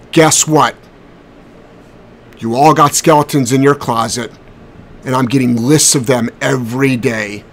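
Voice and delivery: real, contained anger with heavy pauses; emotional warning, measured and deliberate, halting at first; emotional, angry. Real, not acted. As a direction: let each accusation land, then pause. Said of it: "Sorry to get so emotional".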